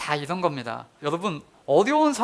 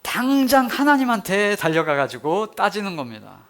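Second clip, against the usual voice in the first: ordinary talk, nothing marked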